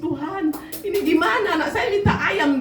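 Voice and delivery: half-laughing imitation of a weeping plea; mock tearful prayer. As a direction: lightly act out a parent crying to God. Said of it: "dia nangis".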